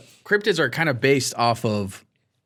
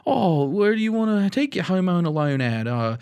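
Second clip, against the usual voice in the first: put-on Australian accent; 3 semitones higher than usual. Man repeats his favorite TikTok conversation, exaggerated Australian accent. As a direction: mimic a crazy Australian accent. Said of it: "their accent's pretty crazy".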